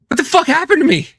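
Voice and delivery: bewildered. Retold or imitated. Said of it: "And then I went".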